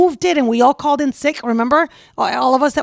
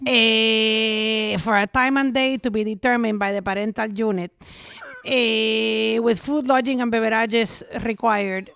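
dad impression; slower than usual. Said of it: "impression of your dad".

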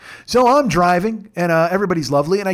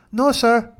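put-on Hispanic accent; 5 semitones higher than usual. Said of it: "my voices of Mario, Nacho, and Evelyn".

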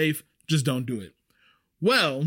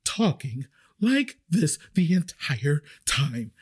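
panicked customer imitation; 3 semitones higher than usual. Server showing how the customer talked, mock panicked voice. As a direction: mimic a freaked-out diner, word by word. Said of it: "her voice and how she was talk".

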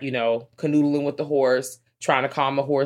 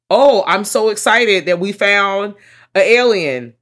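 mock excitement; 6 semitones higher, 8 dB louder, slower than usual. Acting out excited realization.

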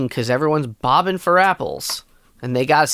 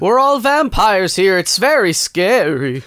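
wild unhinged ranting; 4 semitones higher, 4 dB louder, slower than usual. Pretend. Mock vampire voices.

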